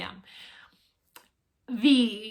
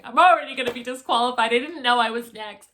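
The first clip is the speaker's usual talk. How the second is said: dramatic panic; 4 dB louder, faster than usual. Retold or imitated. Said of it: "I'm dramatic".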